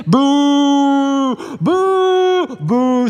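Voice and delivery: loud, high jeering boos; crowd booing. Acted. Crowd jeering at the nine disciples, loud boos. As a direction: boo them off like a hostile crowd.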